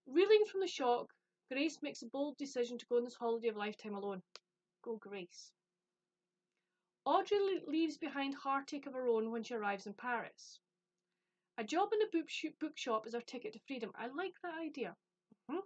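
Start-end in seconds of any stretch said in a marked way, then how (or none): 0.1-4.2 blurb read-aloud. Acted. Reading the premise to viewers, storytelling read-aloud. 7.0-13.9 blurb read-aloud. Acted. Reading the premise to viewers, storytelling read-aloud.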